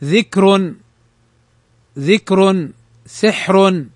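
thin final ر in ذكر and سحر; careful model words with light closing ر in ذكر and سحر. Shown as a demonstration. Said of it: "رققت".

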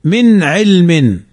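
slow "من علم", the n clear before the ayn; izhar demo. Shown as a demonstration. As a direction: recite "من علم" slowly with a distinct, separate n. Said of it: "فنظهر".

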